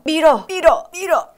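coaching push. Shown as a demonstration. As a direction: urge them on like a coach. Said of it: "계속 벽을 밀어내요".

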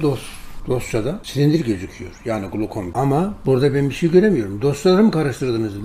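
mock the doctor's annoyed outburst. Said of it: "Bağırdı, çağırdı". (kızgın doktoru hafifçe taklit eden, yüksek sesle)

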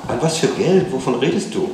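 high, loud, taken-aback questions; startled mother. A narrator's reading. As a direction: demand an explanation in alarm.

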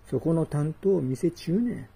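ordinary talk, nothing marked

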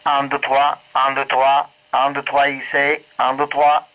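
tinny radio transmission; counting through a handheld radio; over walkie talkie. Real, not acted. Radio test count received.

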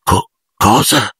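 halting, stunned stammer. A narrator's reading. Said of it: "balbettò Harry". (balbettio sbigottito)

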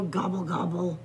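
an understated, lightly voiced groan; mild groan. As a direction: let the gobbles sag with a touch of dismay. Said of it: "groaned Turkey".

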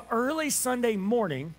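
unhurried reading over music; scripture reading. Acted. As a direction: read the resurrection story with reverence. Reads scripture to congregation.

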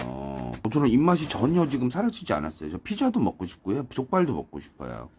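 ordinary talk, nothing marked

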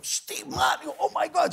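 high, starstruck gasp of disbelief. Retold or imitated. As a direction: act out a fan meeting an idol. Reenacts meeting a star.

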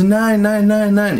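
high-pitched mimicked denial; string of high, insistent retold denials; imitated high voice. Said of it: "versucht, auch so eine helle Stimme zu machen".

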